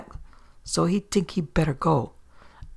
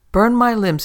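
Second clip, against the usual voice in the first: high, loud pirate exclamation; loud outburst; 6 semitones higher, 7 dB louder than usual. Acted. Hanged pirate Auntie to Frisco, a loud high exclamation. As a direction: bark it out in surprise, loud and high.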